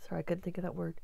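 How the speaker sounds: soft, breathy apology under breath; whispered aside. Real, not acted. Aside after stumbling on word.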